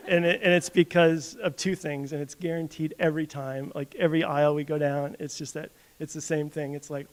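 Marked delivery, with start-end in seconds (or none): 0.0-2.1 laughing. Real, not acted. Laughs telling Costco story.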